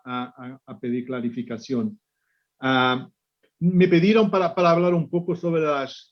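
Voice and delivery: Spanish with a Portuguese accent; Portuguese speaker talking Spanish; portuñol. Real, not acted. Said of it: "mi portuñol".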